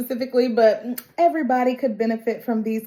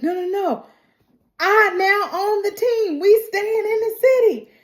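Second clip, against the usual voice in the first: higher, cocky put-on voice for Moto; Moto's put-on voice; 11 semitones higher than usual. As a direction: play the Komodo dragon smug and sure. Moto says he owns team.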